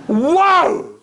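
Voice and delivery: loud, high, drawn-out wow; amazed. Retold or imitated. Comedian reacts to the mother's answer, amazed. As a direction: let out a big astonished exclamation.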